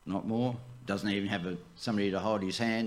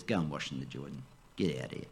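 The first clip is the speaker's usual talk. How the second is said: curt dismissal; 8 semitones lower, 7 dB quieter, faster than usual. Acted. Elijah's curt dismissal, voiced.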